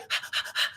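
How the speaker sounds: a quiet breathy exhale, no strain; light relaxed breath out; soft easy sigh. Shown as a demonstration. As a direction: sigh out gently, barely audible. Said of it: "that's how I sounded".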